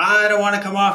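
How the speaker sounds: mock kid voice, very high. Speaker retells the child refusing to come off the game: imitating Leo raising his voice. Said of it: "He starts raising his voice".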